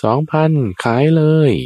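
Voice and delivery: high mock shout of a bidder; auction shout. A bidder at a durian auction shouts, high and loud. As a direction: call out the winning bid. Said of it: "อีกคนหนึ่งตะโกนขึ้น".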